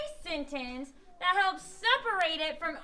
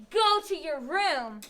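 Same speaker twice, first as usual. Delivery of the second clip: slow, firm stress on "Go" and "room"; exclamation; 3 semitones lower, slower than usual. Shown as a demonstration. Teacher contrasts punctuation marks, firm slow exclamation. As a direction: GO and ROOM drawn out firmly. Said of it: "when I have an exclamation point".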